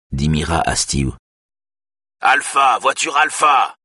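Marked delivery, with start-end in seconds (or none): 2.2-3.8 higher, insistent radio call; impatient call. A narrator's reading. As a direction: snap the call sign, out of patience. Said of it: "crie le responsable avec impatience".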